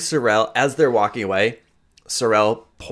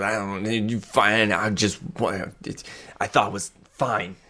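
halting, sulky mumble trailing softer; huffy grumble; 5 dB quieter than usual. Acted. Sorrel stands up and walks off, huffy. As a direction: stammer a sulk, fading off. Sorrel huffs off after scolding.

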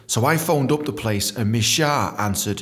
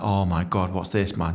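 dread; 5 semitones lower than usual. Retold or imitated. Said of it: "that sense of dread".

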